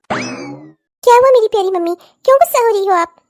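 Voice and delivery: slow, syrupy coaxing; a pampered daughter cooing at her mother; sugary sweet. Acted. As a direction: sweet-talk mummy.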